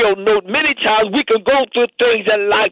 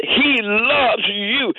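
tender assurance; much slower than usual. Real, not acted. Preacher stressing God's love.

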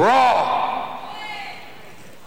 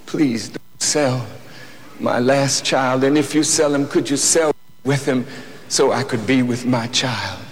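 pleading, crying; 4 semitones lower than usual. Retold or imitated. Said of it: "begged him, crying".

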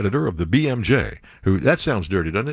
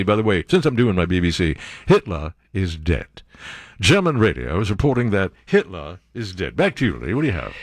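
a hint of a wartime BBC bulletin in a British accent; mock British BBC announcer reading grave news; 6 semitones lower than usual. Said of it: "doing my English accent, doing my B B C".

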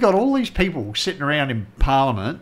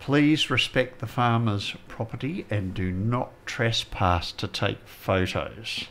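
reading out a sign; 3 dB quieter, slower than usual. Retold or imitated. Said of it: "Pat says".

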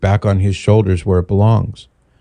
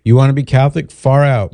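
higher-pitched, mock-agreeable brush-off; breezy dismissal; 5 semitones higher than usual. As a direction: act out an easygoing "good for you". Voicing the friend's breezy dismissal.

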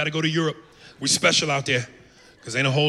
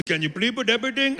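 American guard voice; 8 semitones higher than usual. Retold or imitated. Comic mocking the American guard, slurred higher voice. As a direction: mumble it like a bored American guard. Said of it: "I'm used to".

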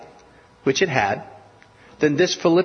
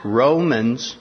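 "Romans" leaned on, drawn out and firm; stress on Romans. Retold or imitated. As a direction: hit "Romans" hard and hold it. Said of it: "he stressed this word".

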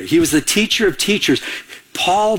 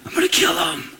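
zealous persecutor Saul; 9 semitones higher, slower than usual. Retold or imitated. Preacher voicing Saul on the road to Damascus, higher and hushed. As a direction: play Saul plotting against the Christians, mock-menacing. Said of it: "he was like this".

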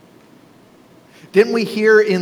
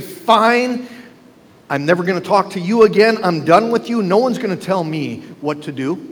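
mock tantrum, done with someone; angry huff. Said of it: "throw your hands up in anger".

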